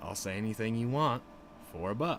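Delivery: plain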